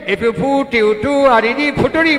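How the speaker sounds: broken-up rote reading of a word; syllable-by-syllable recital. Acted. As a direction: imitate a child spelling aloud. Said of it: "কেটে কেটে ভাগ করে করে পড়তে".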